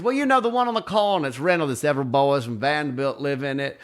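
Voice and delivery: imitated gossiping old lady; Swoopy explaining. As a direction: explain it like an exasperated theatrical grandmother. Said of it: "that's how she talked".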